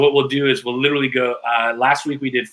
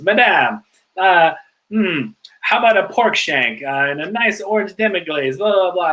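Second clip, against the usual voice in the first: Italian waiter; 5 semitones higher than usual. Retold or imitated. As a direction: sell the dish like a charming Florentine server. Retells Italian waiter's pitch.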